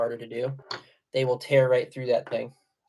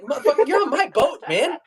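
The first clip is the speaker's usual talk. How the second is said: higher, fast, laughing fake anger; mock outrage; 8 semitones higher than usual. Scolding the secretive friend on his own boat, mock angry. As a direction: laugh through a pretend threat. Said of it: "And I'm like".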